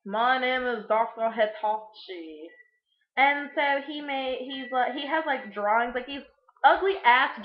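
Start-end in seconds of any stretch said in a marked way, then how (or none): 0.1-2.5 slow, put-on villain doctor voice; a lightly voiced mad surgeon, unhurried; mock doctor voice. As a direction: play the creepy surgeon introducing himself, slowly. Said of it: "is like".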